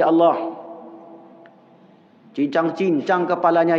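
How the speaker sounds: mock curse prayer. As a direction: pray for punishment with relish. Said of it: "Kemudian Bapak berdoa".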